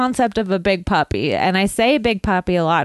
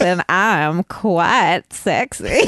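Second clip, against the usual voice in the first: sexy Southern Big Puppy; 2 semitones lower, slower than usual. Pretend. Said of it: "I'm from the South".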